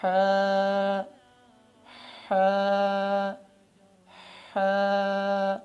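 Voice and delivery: ہا breathed out gently from the throat; Arabic letter ہا, soft. Shown as a demonstration. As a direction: model a gentle ہا. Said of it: "اسی انداز سے نکلتی ہے".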